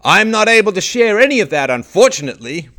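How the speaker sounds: a loud, pompous official brush-off; hammed-up spokesman refusing to answer; mocking official quote. Commentator mocking the spokesman's non-answer, loud and pompous. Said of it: "Summers said".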